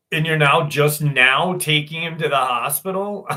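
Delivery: incredulous. Retold or imitated. Son reacting to mom's late hospital trip, incredulous. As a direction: question it in disbelief.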